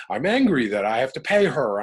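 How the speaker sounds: mild mock anger; angry. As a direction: spit out the grievance. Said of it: "And I'd".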